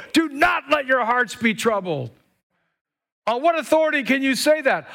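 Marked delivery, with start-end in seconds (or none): 0.1-2.1 proclaimed higher and louder. Shown as a demonstration. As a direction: declare it to the whole room. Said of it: "Let me say it to you".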